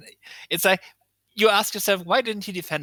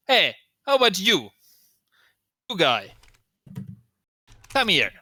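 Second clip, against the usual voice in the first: wrestler's challenge; 6 semitones higher, 3 dB louder than usual. Acted.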